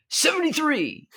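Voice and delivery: very high, altered call-out voice; called out number. Acted. Camper shouting a joke number to the lunchroom, very high. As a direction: pitch the number way up like a punchline.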